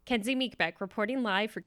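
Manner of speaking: a light, hushed newsy sign-off; news reporter sign-off. Shown as a demonstration. Sign-off joke for co-host, lightly voiced news reporter. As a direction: play-act a live reporter, understated. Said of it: "let me, like".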